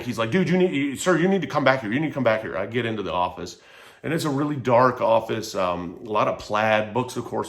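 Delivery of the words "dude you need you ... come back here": mock panic, rushed and urgent; panicked doctor. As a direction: play the doctor hurrying him in, half-panicked. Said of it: "this doctor pops out in a fucking panic".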